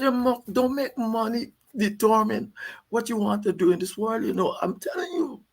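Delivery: hammed-up old leader giving advice; imitating Burnham.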